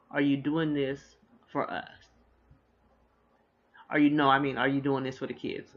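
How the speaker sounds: a light take on Dean's halting question; imitating Dean. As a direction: replay the husband stumbling mid-question. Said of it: "That's exactly how he said it".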